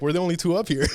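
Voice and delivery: high, loud, laughing through the words; laughing quote. Retold or imitated. Retelling the neighbor's words, laughing high. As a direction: quote her while cracking up.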